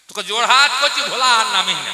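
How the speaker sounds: a teacher begging a pupil, hammed up; pleading. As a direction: beg the boy to stop, half-comic. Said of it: "master তখন জোরহাত করে বলছে".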